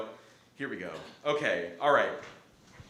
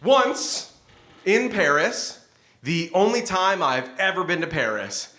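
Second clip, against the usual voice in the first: animated stage storytelling in verse; lively slam-poetry delivery; comic spoken-word poem; 4 semitones higher than usual. Acted. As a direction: perform a funny poem with punched phrases.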